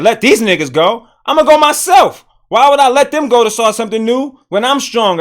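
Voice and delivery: loud, high, swaggering conqueror voice; boastful conqueror. Retold or imitated. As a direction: play the strong king who owns his slaves. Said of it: "They would've said".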